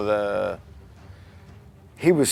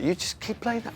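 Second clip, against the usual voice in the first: eager command; 12 semitones higher, 4 dB quieter than usual. Retold or imitated. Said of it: "went, sort of like".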